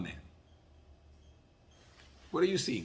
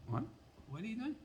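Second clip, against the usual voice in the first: matter-of-fact call-out; 10 semitones higher, 10 dB quieter, faster than usual. Shown as a demonstration. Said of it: "Just make a statement".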